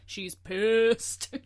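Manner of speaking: loud, amused outburst; exclaimed reaction. Retold or imitated. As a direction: burst out with it, emphatically. Mimicking own reaction to the character.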